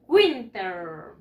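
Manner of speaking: WINTER drawn out, falling at the end; model pronunciation. Shown as a demonstration. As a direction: say "Winter" slowly for pupils to copy. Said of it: "Repeat after me". (pronunciación modelo, alargada)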